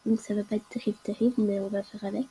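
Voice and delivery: hoarse from a cold; raspy, sick throat. Real, not acted. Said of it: "Excusez-moi pour ma voix, parce qu'en ce moment, je suis malade".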